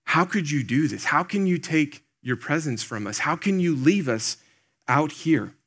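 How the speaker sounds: mild retold protest, pitch lifted; mock arguing. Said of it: "shouting these things and, and just almost arguing with God".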